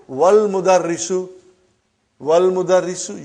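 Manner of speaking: wal mudarrisu with w joined straight onto al; hamza dropped. Shown as a demonstration. Teacher showing a silent hamza, joined-up wal mudarrisu. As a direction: run wal mudarrisu together without a glottal break. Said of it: "you did not pronounce hamza".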